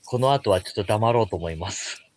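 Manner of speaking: slightly slurred, tipsy talk; speaking after too many drinks. Real, not acted. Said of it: "私すごい泥酔なので".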